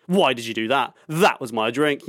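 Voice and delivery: mildly indignant retold protest; retold drunken upset. Drunk boyfriend retelling his complaint to his girlfriend, mildly upset. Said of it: "I get so angry".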